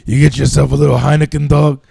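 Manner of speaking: loud, lightly put-on comedian voice; Joey Diaz. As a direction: imitate a comic pushing friendly advice. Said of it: "That was my Joey Diaz impression".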